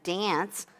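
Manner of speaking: dance with a flat Midwest a; dance in a plain Midwest voice; Midwest accent. Shown as a demonstration. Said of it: "My Midwest accent".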